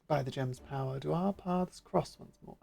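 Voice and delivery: lightly voiced posh gentleman; only a touch of upper-class poise. Huge beast man asks the hero, understated posh. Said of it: "Yes, posh individual".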